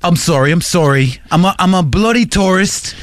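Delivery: apologetic mock British tourist; lightly hammed-up English accent. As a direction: stammer out apologies in fake British. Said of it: "old guy with a British accent".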